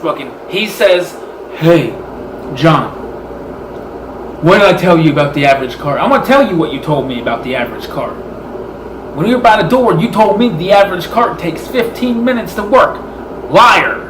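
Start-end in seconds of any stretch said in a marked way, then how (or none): 1.5-8.1 shouting. Retold or imitated. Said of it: "He's shouting". 9.1-13.0 shouting back. Retold or imitated. Arguing with the manager about the cart, shouting. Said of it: "He's shouting". 13.5-14.0 shouting. Retold or imitated. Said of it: "He's shouting".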